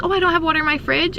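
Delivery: a hint of grandma, quick and light; imitating grandma.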